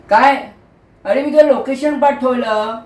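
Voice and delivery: mildly indignant, voice lifted; irritated disbelief. Acted. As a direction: push back at the caller in annoyance. Irritated on phone with late friend.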